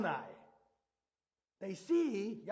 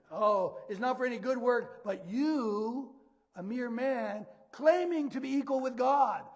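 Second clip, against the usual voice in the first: louder, emphatic accusation; indignant accusers; 2 semitones higher, 7 dB louder, slower than usual. Acted. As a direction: build to a louder charge of blasphemy. Accusers answer Jesus in acted quote.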